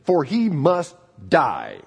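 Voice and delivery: slow, drawn-out, lightly menacing decree; slow menacing king. Retold or imitated. Preacher voicing King Saul ordering David's death, slow and menacing. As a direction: deliver the death order slowly and heavily. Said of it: "And so Saul says".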